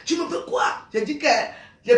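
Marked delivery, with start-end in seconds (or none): 0.1-0.6 imitating a mother snapping, higher pitched; retold scolding yell. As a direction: act out a mother telling off her kid. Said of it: "Quand elle criait sur l'enfant".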